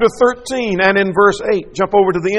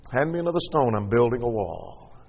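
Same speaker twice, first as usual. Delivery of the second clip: quiet repeat; 6 semitones lower, 7 dB quieter than usual. Acted. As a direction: murmur it as a hushed aside. Same words, said softly.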